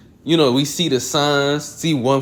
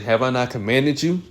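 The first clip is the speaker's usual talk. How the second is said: "Have I not commanded you?" rising on "you"; question intonation. Shown as a demonstration. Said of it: "there's a question".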